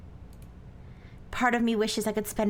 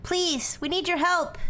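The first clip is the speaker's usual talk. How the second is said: pleading; 8 semitones higher, slower than usual. Acted. Pleading with unseen fairies.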